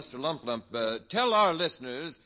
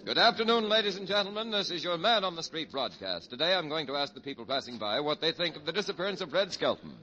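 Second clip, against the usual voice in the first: man-on-the-street broadcast opening; radio announcer. Acted. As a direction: greet the radio audience like an announcer.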